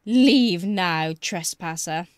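a stern spirit guardian, slow and menacing; hissing reptile growl. Acted. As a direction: growl out the threat like an ancient guardian. Boggart orders her out.

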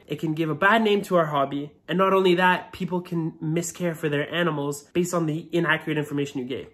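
stuffy voice from a cold; muffled voice. Real, not acted. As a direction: talk through a blocked nose. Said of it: "Sorry about my kind of muffled voice".

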